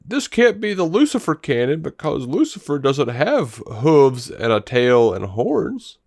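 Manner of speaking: exaggerated fussy complaint, mildly mocking; imitating nitpicky fans. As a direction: mimic a fan objecting, stretching the words. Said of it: "people ... bringing up that".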